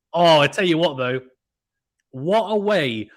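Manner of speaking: loud, bursting exclamation; excited exclaim. Real, not acted. Commentator thrilled by a huge serve, loud exclaim. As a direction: blurt it out in delight.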